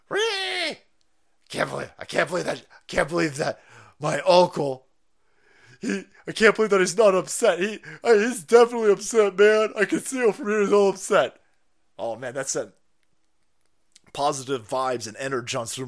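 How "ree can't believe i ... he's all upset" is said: high, loud whiny rant, shrill cry to start; hammed-up tantrum about her uncle; mock shrieking niece. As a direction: play a whiny niece losing it.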